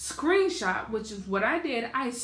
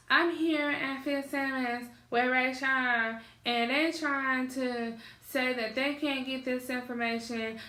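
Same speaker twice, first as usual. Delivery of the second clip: slow, higher-pitched mock grandma; lightly put-on grandma voice, drawn out; annoyed grandmother imitation; 3 semitones higher than usual. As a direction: mimic grandma with some annoyance. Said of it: "so this is how she sounds".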